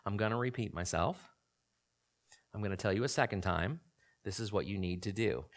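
steady and unruffled, no anger; very calm. Retold or imitated. God calmly repeating himself to Jonah, softly. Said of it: "very calmly just says".

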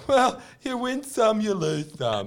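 high, slow purring come-on; sultry milf voice. Retold or imitated. Host mocking the show's hot neighbour, slow and sultry. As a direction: coo it like a bored seductress. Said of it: "that hot milf going".

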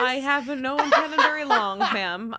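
high, loud and flustered; a prim character caught off guard; nervous polite lady. Acted. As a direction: stammer it out like a cornered young lady. Player voices nervous character.

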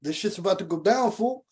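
lightly voiced Houston cholo warning; cholo slang. Retelling a warning to a friend, light cholo voice. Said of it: "I told that fool".

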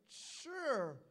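teasing, drawn-out sure; mock him with a playful drawl; funny tone. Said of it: "funny type of t-, tone".

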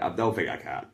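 breaks into high laughter; laughing. Real, not acted. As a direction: laugh through the reply. Laughing reply.

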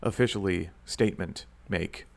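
mock-official radio announcer, lightly put on; deliberate, measured announcement with pauses. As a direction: play the radio host making an official statement. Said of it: "talk in my radio voice".

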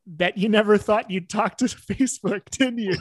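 light imitation of a Texas accent. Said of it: "a heavy Texas accent".

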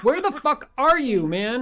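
high, loud frantic yell; panicked shout. Acted. Host calls for vanished caller.

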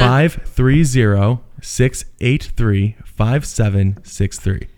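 low, very slow sultry read; sexy voice. Pretend. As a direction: drag each digit out seductively. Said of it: "You have to say in a sexy voice".

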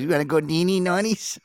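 high sing-song mom voice; lightly voiced Italian mom; imitating mom. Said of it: "my mom used".

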